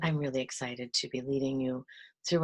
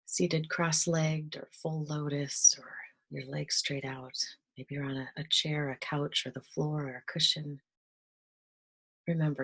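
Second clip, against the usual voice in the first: guided meditation. Acted. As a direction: ease listeners into relaxing, unhurried.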